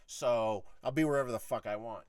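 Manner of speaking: firm, matter-of-fact pushback; understated defiant comeback; retold sharp retort. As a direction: answer back sharply, in a measured retelling. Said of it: "I said it to him like that".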